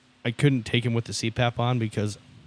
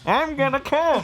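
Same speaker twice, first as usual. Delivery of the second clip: high falsetto; 3 dB louder, slower than usual. Acted. Mock sex voice.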